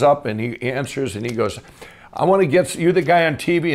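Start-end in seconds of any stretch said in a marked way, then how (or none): 2.1-3.7 a retold angry phone call, pushed up in pitch; angry stranger on the phone at three in the morning, mock mad; mad caller. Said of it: "And he was mad".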